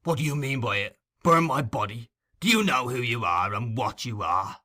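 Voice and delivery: hard, threatening demand; rough threatening thief. Acted. Sikes bullying Nancy, gruff threat. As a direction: lean on her with menace.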